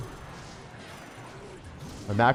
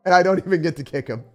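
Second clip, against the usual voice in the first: excited complaint; 6 semitones higher, 7 dB louder, faster than usual. Real, not acted. Repeats complaint.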